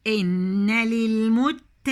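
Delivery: للمت with a thin light ta, not heavy. Shown as a demonstration. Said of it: "التاء هنا مرققة يا بنات".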